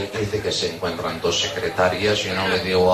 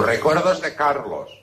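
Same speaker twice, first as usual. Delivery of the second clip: higher, drawn-out singsong delivery; insistent acted greeting; 4 semitones higher than usual. Friend passing on Carlos's regards, drawn-out insistence. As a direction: stretch it out, rising then falling.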